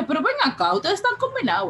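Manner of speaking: high-pitched playful telling-off; mock scolding. Teacher to her crying students, mock scolding.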